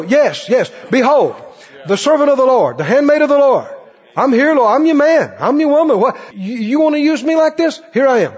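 lightly voiced eager servant; eager believer. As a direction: answer God with glad readiness.

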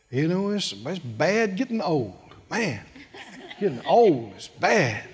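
a hint of an elderly shut-in fishing for pity; mock feeble moaning, understated; feeble complainer. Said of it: "Let the weak say".

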